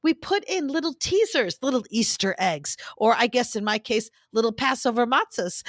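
measured podcast ad read; serious advertising voice. Real, not acted. Host pitching Patreon to listeners, serious advertising voice. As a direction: deliver the perks in a composed promo voice. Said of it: "my serious advertising voice".

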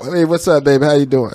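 low, smooth flirty greeting; crooning a pickup line. Pretend. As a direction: play the ladies' man. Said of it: "Is that how you talk to your women?".

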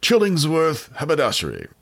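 high-pitched mock shopkeeper announcing his store; Chillingsworth. Co-host voices the imagined haberdashery owner, hammed-up Chillingsworth voice. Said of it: "trying to do a Chillingsworth voice".

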